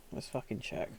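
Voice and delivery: breathy voiceless whisper under her breath; whispered curse. Real, not acted. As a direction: hiss the curse almost silently. Impatient muttering to herself.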